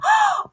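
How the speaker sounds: high gasp of delight; shrieking gasp. Real, not acted. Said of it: "It was hilarious".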